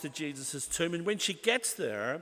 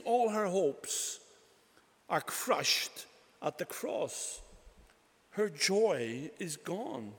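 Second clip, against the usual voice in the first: slow sorrowful; slower than usual. Acted. Preacher dwells on Mary's grief.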